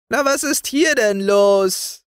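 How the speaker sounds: unhurried, high-pitched query; easygoing newcomer. Acted. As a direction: wander in and ask cosily. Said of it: "fragte da ganz gemütlich irgendwer".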